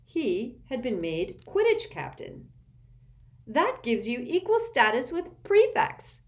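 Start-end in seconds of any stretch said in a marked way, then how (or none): 3.5-6.2 put-on high, loud delighted girl; happy cry. A narrator's reading. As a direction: burst out with joy. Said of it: "cried Hermione happily".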